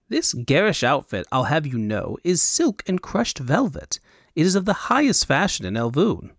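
offended fop defending his silk. Acted.

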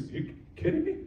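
high breathy disbelief, whispered; amazed whisper. Pretend. Listener hearing of Lazarus, whispered amazement. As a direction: whisper it in stunned wonder. Amazed crowd reacting to miracle.

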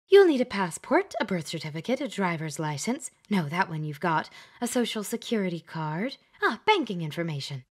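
a lightly voiced, bustling old witch; Glenda, witchy matchmaker. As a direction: chatter through the list like a fussy matchmaker. Glenda lists documents briskly.

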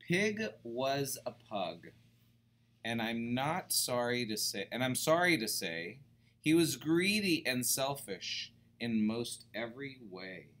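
put-on reading to children, lightly sung rhythm; a storybook read to kids; bouncy read-aloud; story narration. A narrator's reading. Reading picture book aloud.

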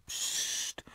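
soft whispered hush; shushing. A narrator's reading. Caro hushes Olli so Jade stays asleep, whispered. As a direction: hush him so nobody wakes.

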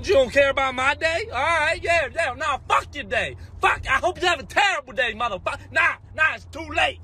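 high, whiny mock outrage at a stranger; petty rant. Ranting at someone who only said all right, mock outrage. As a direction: rant like a petty offended guy.

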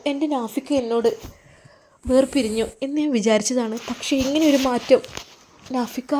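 a woman weeping with joy in her husband's arms; tearful joy. Acted. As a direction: let her voice rise and tremble with glad tears. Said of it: "കെട്ടിപ്പിടിച്ച് കരയുന്നു".

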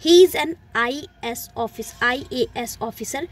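slow, deliberate example with an; slow example read. Shown as a demonstration. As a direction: spell out the example slowly for the class. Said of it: "तो ये simple है". (धीमे से पढ़ा गया उदाहरण)

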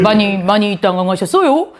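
lightly voiced comedian catchphrase; comedian impression. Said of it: "그거 내가 더 잘하겠다".

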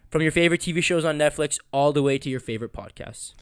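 polished, evenly paced ad read; sponsor read. Acted. Host thanking the sponsor for listeners, ad-read delivery. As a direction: read it out like a podcast sponsor spot.

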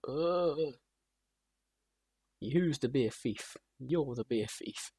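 very slow, drawn-out mock accusation; slow put-on grumbling; a rock singer. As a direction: imitate a slurry rock star, dragging each word. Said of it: "where he comes out, he goes".

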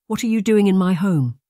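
frail aunt demanding an answer; startled old aunt. Acted. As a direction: challenge the stranger in her house. Aunt confronts intruder.

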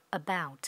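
about ending in a crisp T; teacher shows the final T. Shown as a demonstration. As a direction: close about with a clear T. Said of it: "có âm T ở cuối".

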